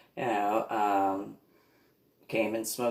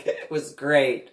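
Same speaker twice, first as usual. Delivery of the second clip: laughing; 3 semitones higher, 4 dB louder, slower than usual. Real, not acted.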